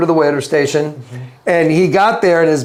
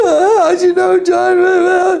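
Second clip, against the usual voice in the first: very high, slow tearful crying, one word drawn out. Retelling Mark walking up weeks later over coffee, imitating Mark crying. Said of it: "And he's crying".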